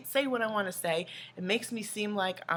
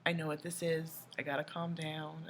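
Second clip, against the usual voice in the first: calming self-talk; 2 semitones lower, 6 dB quieter than usual. Retold or imitated. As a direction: softly talk yourself down. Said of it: "I have to also calm down and say".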